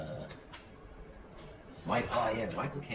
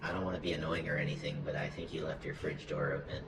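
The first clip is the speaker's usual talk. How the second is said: lightly voiced hesitant, apologetic character, softly; Carol; 2 semitones lower, 4 dB quieter than usual. Carol politely saying the fridge is open, hesitant impression. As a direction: apologise haltingly in a slightly put-on voice. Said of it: "maybe you want Carol's voice".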